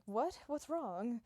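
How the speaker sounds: acted bewildered question; startled confusion. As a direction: ask it as if caught off guard. Newcomer startled by people's horror.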